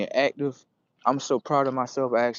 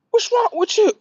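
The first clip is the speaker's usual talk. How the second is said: much higher and louder, a mother's alarmed cry; worried mother; 8 dB louder than usual. Retold or imitated. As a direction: voice the startled mother calling to her son. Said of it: "She was looking at her son like".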